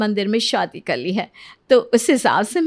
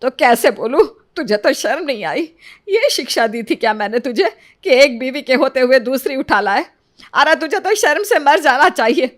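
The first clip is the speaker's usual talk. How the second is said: louder, cutting reproach; angry scolding; 5 dB louder than usual. Acted. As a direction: shame the son with every word. Mother scolds son for second wife. (बेटे को गुस्से में डाँटती माँ)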